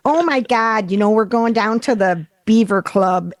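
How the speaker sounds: put-on a lightly done Buffalo accent; a mild Buffalo accent that slides toward Minnesota. Imitating local Buffalo women, mild Buffalo accent. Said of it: "that sounds too much like Minnesota".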